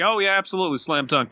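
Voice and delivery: high, breezy overpromising; lightly mocking salesy lawyer; overconfident lawyer. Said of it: "a bad lawyer will say".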